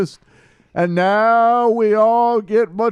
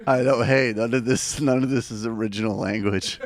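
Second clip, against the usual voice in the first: low, soft, through laughter; laughing disclaimer; 12 semitones lower, 5 dB quieter than usual. Real, not acted. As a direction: laugh it off quietly.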